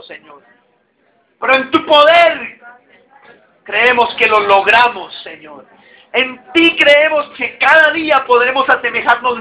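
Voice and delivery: earnest preacher's prayer voice; spoken prayer. Real, not acted. Pastor praying over the congregation, earnest prayer voice. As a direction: pray aloud for the whole congregation.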